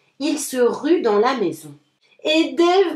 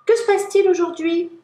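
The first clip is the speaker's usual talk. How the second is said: higher, louder astonished question; surprised; 6 semitones higher, 3 dB louder than usual. A narrator's reading. Hedgehog asks Little Mole what's happening, surprised. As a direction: wonder aloud at the news. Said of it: "s'étonne-t-il".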